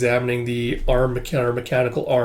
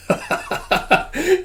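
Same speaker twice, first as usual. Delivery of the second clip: laugh. Real, not acted. Reader laughs at the scene.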